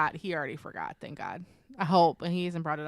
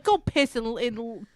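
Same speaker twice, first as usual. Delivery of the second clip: louder, higher shoo-away; shooing him away; 5 semitones higher, 8 dB louder than usual. Retold or imitated. Mom shooing her son off to the bathroom, louder. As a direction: push him off with exasperation.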